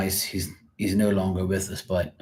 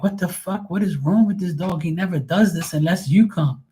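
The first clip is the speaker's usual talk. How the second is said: mock amazed owner; 9 semitones higher than usual. Owners baffled by the dog.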